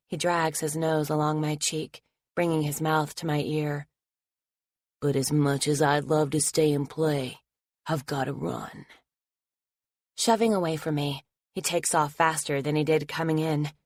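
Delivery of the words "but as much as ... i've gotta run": creepy taunt. Acted. Attacker taunting Anna as he leaves, creepy. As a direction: toy with her before leaving.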